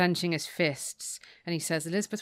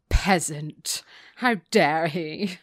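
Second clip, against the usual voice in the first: slow, louder mock indignation; haughty indignation; 6 dB louder, much slower than usual. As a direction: draw it out like an affronted snob. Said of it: "She thinks to herself".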